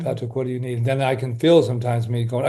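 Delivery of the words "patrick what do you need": soft, tender calling of his own name; gentle self-address. Shown as a demonstration. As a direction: call yourself softly, almost a murmur. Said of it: "I just stop for a minute, breathe in, pause".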